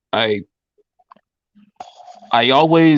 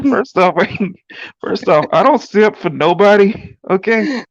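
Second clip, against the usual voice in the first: sassy; 7 semitones higher than usual. Pretend. Sassy comeback while laughing.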